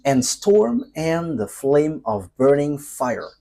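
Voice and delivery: slow, solemn verse reading; scripture reading. Acted. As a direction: read the prophecy out slowly, word by word. Reads scripture verse aloud.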